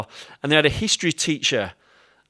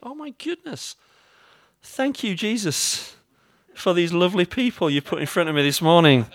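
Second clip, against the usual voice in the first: sarcastic thanks; 3 semitones higher than usual. Retold or imitated. Sarcastic thanks after being crushed.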